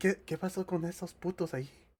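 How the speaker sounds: mock hushed Spanish whisper. Retelling what the lady taking the order whispered, retold whisper in Spanish. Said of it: "she whispered like through the the".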